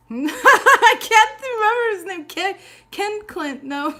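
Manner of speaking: high, loud laughing through the words. Real, not acted. Reader laughs while failing to recall Superman's name, high and loud. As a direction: giggle while fumbling the name.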